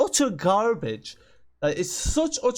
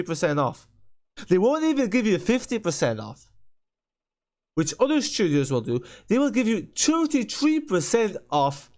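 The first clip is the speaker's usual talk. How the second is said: ranting. Real, not acted. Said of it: "that is probably the biggest rant".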